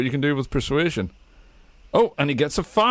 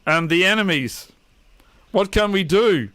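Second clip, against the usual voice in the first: worried orc shaman; 5 semitones higher than usual. Acted. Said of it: "he looks around and goes".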